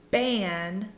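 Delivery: ban with lips pressed together, a stopped B. Shown as a demonstration. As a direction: show the mistaken ban with a lip stop. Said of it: "don't let your lips push together to do like".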